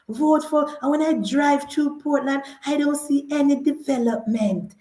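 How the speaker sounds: soft, deflated campaign speech, lightly mocked; defeated politician. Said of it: "He no have no bass in our voice".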